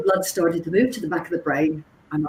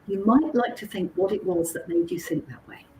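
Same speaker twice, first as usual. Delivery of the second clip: whisper; 7 dB quieter than usual. Retold or imitated. Retold parting line to shopper.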